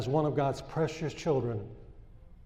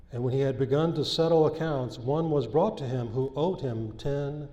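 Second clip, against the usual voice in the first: scripture reading. Acted. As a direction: read the parable out to the congregation. Reads scripture aloud.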